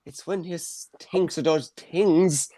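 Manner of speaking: mock bad Irish accent, drawn out. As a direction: slowly imitate a botched film Irish accent. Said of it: "this is not an Irish accent".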